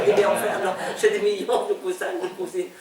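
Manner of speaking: amused chuckle through the denial; laughing. Real, not acted. Answering people who think all Nguyens are cousins, laughing.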